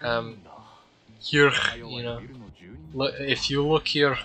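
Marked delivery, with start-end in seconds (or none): 1.2-1.5 "here" ending in a throaty, scraped sound, imitated Turkish accent; professor's accent on "here". Gamer repeating his professor's "here", imitated accent. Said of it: "Like, he says here". 2.9-4.2 halting imitation of a Turkish accent, throaty "here"; attempted professor's accent. Gamer trying out his professor's phrase, imitated accent. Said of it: "I can only do the, the accent sometimes".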